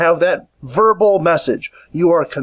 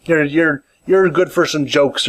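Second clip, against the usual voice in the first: sarcastic; 3 semitones lower than usual. Retold or imitated. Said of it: "the very sarcastic".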